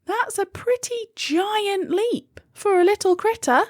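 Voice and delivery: astronaut voice. A narrator's reading. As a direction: play the friendly astronaut.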